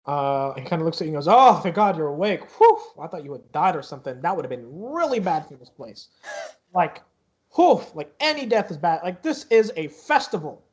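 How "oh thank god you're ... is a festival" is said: lightly voiced guard, relieved and rambling; slightly raised voice, relieved the patient is awake; a touch of flustered relief; relieved security guard. Game master plays relieved security guard.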